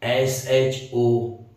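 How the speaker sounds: R U N spelt out slowly, letter by letter; slow spelling. Shown as a demonstration. Teacher spells run slowly for students.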